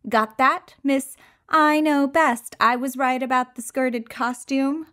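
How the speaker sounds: taunting. Acted. Taunting the mirror.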